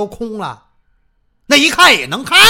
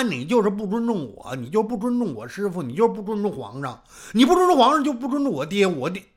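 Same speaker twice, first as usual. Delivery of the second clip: tongue-tied mumbling; 3 semitones lower, faster than usual. Acted. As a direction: talk like your mouth won't open. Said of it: "说话真不利索".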